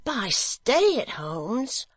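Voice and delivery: high, slow puzzled question; cried out. Acted. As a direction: draw it out high, hurt and puzzled. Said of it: "cried Barnaby".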